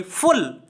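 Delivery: फुल set apart as the last syllable; a separate, demonstrative फुल; syllable-by-syllable pronunciation. Shown as a demonstration. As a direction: isolate फुल for the learner. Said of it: "ब्यूटीफुल का उच्चारण करते हैं".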